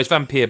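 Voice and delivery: Vampire ending like "peer"; Vampire as "vam-peer". Shown as a demonstration. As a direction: say Vampire to rhyme with "here". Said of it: "but you got to roll your R's".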